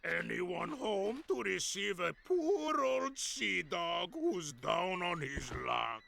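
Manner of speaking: put-on gruff old fisherman. Pirate captain greeting old mate.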